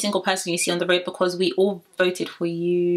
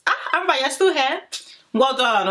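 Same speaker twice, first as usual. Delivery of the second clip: sarcastic; 5 semitones higher than usual. Retold or imitated. Sarcastic greeting to Amber.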